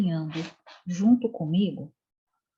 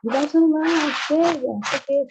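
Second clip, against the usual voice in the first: loud, raised-pitch mock outburst at a child; retold exasperated scolding; 9 semitones higher, 7 dB louder than usual. Mother retelling how she demanded her daughter's phone, exasperated and loud. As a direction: imitate a loud, high-pitched telling-off.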